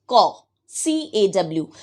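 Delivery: Caw, C A W spelled out slowly, letter by letter; slow spelling dictation. Shown as a demonstration. Teacher dictating the spelling to children, slow and deliberate. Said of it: "Please circle it".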